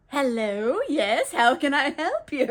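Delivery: put-on singsong politeness; overly casual, acted greeting; fake casual. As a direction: answer the door as if nothing's wrong. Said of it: "Just casual".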